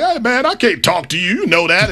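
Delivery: high, bright-edged mock Magic voice; Magic Johnson impression. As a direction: lightly put on Magic Johnson. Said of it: "is that your Magic Johnson impersonation".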